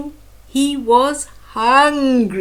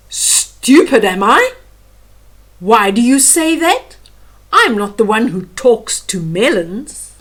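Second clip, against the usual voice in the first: indignant melon; 6 dB louder than usual. Acted. Melon retorts, insulted.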